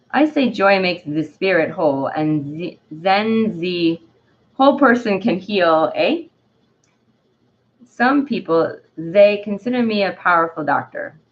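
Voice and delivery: faint put-on French accent; a slipping French accent; Dandelion's French accent. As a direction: read with a light, amateur French accent. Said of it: "I'm gonna stop with the accent".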